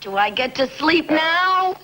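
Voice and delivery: plaintive whimper rising to the end. Acted. Tired pupil begs her coaches for sleep, whimpering. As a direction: whimper it, pleading for rest. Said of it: "whimpering about sleep".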